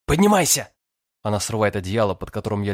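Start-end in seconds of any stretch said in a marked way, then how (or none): 0.1-0.7 commanding. A narrator's reading. Ordering him to get up.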